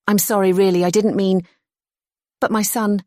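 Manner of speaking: high, breathless apology; flustered apology. Acted. Kate to the girl, flustered and high. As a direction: stammer out the excuse.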